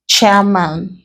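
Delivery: CHAIR stressed in Chairman; stress on first syllable. Shown as a demonstration. Teacher giving a compound word example, CHAIR stressed in Chairman. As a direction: put the weight on CHAIR, man lighter. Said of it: "stress them on the first syllable".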